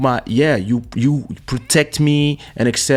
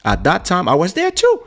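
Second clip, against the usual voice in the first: friend's voice; 6 semitones higher than usual. Retold or imitated. Friend's voice retold, high.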